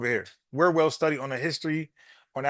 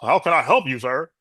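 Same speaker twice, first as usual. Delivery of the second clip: mock deeper customer-service voice; work phone voice; 3 semitones lower, 4 dB louder than usual. Mocking a caller's put-on work voice, lower and formal. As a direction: drop low and polite like answering at work. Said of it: "The phone ring at work".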